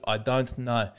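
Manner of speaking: put-on quick try at a South African accent. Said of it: "good that it starts with".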